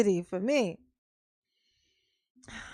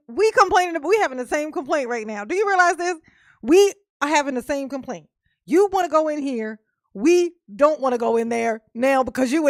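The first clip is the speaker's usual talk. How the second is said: heated rant; 2 semitones higher than usual. Real, not acted. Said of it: "Mama had to rant a little bit".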